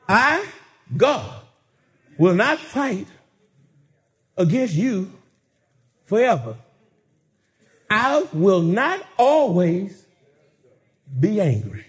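low, deliberate reading of God's promise; a hint of a solemn divine voice. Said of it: "God himself says".

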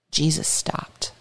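hushed, slow whisper. A narrator's reading. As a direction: drop to a whisper for the moment. Dramatic pause in story.

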